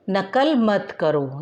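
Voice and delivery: each word of नकल मत करो spoken slowly and separately; slow dictation. Shown as a demonstration. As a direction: dictate it slowly for the children to write. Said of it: "teacher dictating a sentence". (धीरे धीरे बोलकर लिखवाना)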